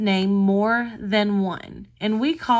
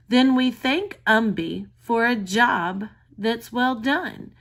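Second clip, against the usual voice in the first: put-on reading to a toddler. Shown as a demonstration. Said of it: "Listen to the poem".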